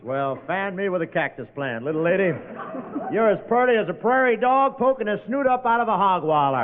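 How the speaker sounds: hammed-up hillbilly cowboy accent, lightly done; corny cowboy accent. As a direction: lay the corny Western accent on thick for laughs. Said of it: "do we have to listen to that corny accent".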